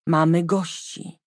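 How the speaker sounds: slow, carefully even delivery; keeping her voice steady on purpose; forced calm. Acted. Mother breaking news to daughter, forced calm. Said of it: "tak spokojnie, jak tylko umiała".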